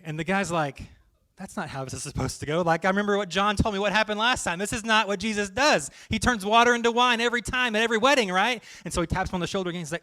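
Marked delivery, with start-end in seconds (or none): 1.4-8.6 exasperated, words tumbling out; frustrated rant. Acted. Groomsman ranting that Jesus isn't repeating his miracle, frustrated. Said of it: "he's gonna be very frustrated".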